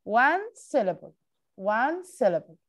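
slow teacher demo of syllables; syllables drawn out for kids; slow, clear count. Shown as a demonstration. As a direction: spell out each beat slowly.

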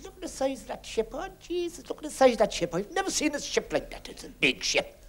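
high, awed exclaiming; amazed Irishman. Retold or imitated. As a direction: gawp at the ship in wonder. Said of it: "there's an Irish fellow said".

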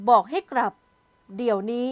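each word stressed clearly, loud burst at the start; firm command, hit บอกให้กลับ hard, then เดี๋ยวนี้; emphatic order. A narrator's reading. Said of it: "คนตัวโตเน้นคำพูดชัดๆอีกรอบ". (สั่งเน้นคำชัดๆ)

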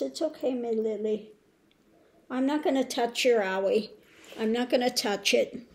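calm her so she won't be scared; soothing the dog. Real, not acted. Comforting the crying dog.

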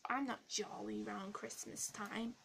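ordinary talk, nothing marked

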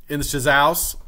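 "house" said as slangy "sizzouse"; mock youth slang, HOUSE stretched into "sizzouse"; imitating kids' slang. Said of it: "That's how they say it".

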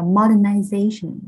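modernization, strong beat on the fourth syllable; stress on fourth syllable. Shown as a demonstration. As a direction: push out modernization, leaning on ZA. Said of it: "rơi vào âm thứ tư".

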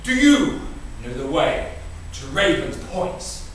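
stagey, high opening call to a stranger; lightly acted traveller asking the way; polite traveller. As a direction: hail a stranger in a theatrical, deliberate way. Rehearsed comedy sketch, stranger asks way.

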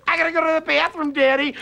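put-on high, fast child's whine from the back seat; whiny kid. Kids begging daddy from the back seat, whining high. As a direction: nag like a kid who can't wait.

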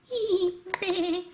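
high little whinnying bleat; toy animal cry. Pretend. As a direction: squeal like a small toy animal.

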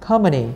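"Company" with COM high and stressed; first-syllable stress. Shown as a demonstration. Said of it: "âm một luôn".

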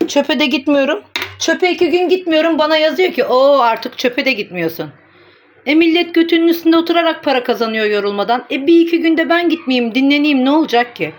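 indignant rant. Real, not acted. Answering critics who mock her for skipping trash, indignant rant. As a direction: push back hard at the critics.

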